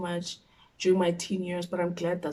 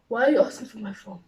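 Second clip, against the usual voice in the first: louder, insistent question; voiced protest; 3 semitones higher, 5 dB louder, faster than usual. Daughter questioning mom about the phone, insistent protest. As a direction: push the "Why" out loudly. Same question repeated more firmly.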